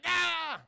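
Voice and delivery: high "ah" yell; hammed-up villain's wail; mock cry of pain. Morbius hit by solar rays, mock wail.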